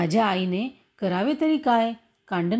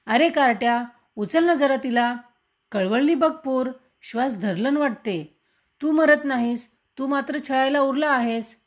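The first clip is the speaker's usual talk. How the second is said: angry scolding; 3 semitones higher than usual. Acted. Mother scolding her son over the crying baby, furious. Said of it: "आई रागावून दुःख संतापाने वेडी होऊन बोलत होती".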